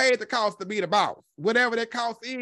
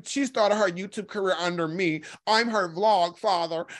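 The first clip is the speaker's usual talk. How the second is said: Jay Wilson impression. Commentator echoing his claim over Tracy's career, lightly mocking impression. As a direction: mimic his claim, stretching the title. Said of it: "Jay Wilson hit that man's panel and introduced himself".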